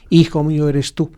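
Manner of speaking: "Hijo" lifted and weighted in "Hijo mío eres tú"; stress on hijo. Shown as a demonstration. Preacher showing the Hebrew emphasis on "Hijo". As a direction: hit "Hijo" first to show where the emphasis sits. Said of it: "es distinto el énfasis".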